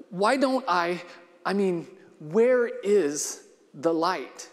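slow, a touch of a tremble, searching; voice shaking. Acted. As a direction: let the voice shake a little on the question. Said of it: "here his voice shook a little".

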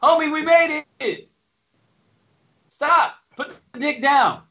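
high, loud mock pleading; hammed-up plea to stop; mock exasperated scolding. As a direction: call out in exasperation at a buddy. Mock scolding an eager careerist.

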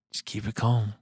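soft, hushed imitation of a snake handler; retold calm. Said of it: "as calm as can be".

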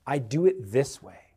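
whispered mock of a stubborn hockey player; stubborn teammate. Preacher imitating a player set in old habits, whispered. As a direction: breathe it like a grumbling new teammate. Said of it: "you're like".

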